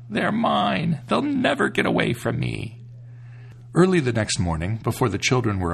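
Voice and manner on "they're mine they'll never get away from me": mildly gloating witch voice, higher; a hint of a wicked, scoffing witch. A narrator's reading. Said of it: "she had laughed wickedly and scoffed".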